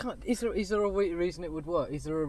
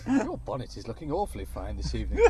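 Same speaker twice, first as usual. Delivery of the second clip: English gentleman; 2 semitones lower than usual. Pretend. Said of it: "as a proper English gentleman".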